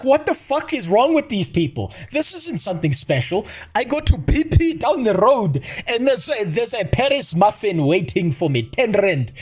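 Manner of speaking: high, mocking friend's voice; mock outraged friend; imitating friends. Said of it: "because they're like".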